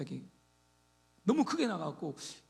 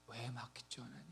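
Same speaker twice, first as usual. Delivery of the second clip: quiet plea; 7 semitones lower, 15 dB quieter than usual. Retold or imitated. Prayer voiced softly.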